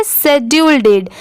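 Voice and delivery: शेड्यूल्डेड ending in a sounded "d"; teacher modelling शेड्यूल्डेड with its last "ड" sound; final d sounded. Shown as a demonstration. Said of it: "last में ड की sound".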